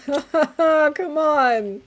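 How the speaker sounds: frustrated shout. Real, not acted. Frustrated at full inventory.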